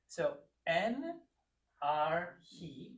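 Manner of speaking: "en arhi" in separate, deliberate pieces; "arhi" split in two, rising at the end; model for repeating. Shown as a demonstration. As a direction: say "en arhi" for a learner to copy. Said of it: "I'd like you to repeat it".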